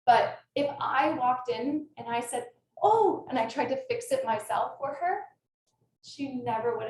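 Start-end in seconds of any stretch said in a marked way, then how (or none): 2.8-3.3 loud, high mock "oh"; sudden high, loud exclamation of concern; imitated fussing alarm. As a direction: act out an adult rushing to the rescue. Acts out adult rushing to fix.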